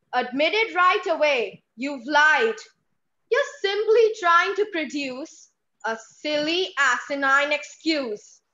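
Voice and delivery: scolding mother. Acted. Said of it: "voice modulation from mummy to child".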